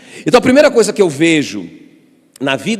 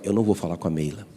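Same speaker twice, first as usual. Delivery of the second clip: soft, lower, quick private vow; quiet resolve; 8 semitones lower, 9 dB quieter, faster than usual. Retold or imitated. Pastor deciding privately not to tell his wife, hushed. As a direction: say it to yourself under your breath.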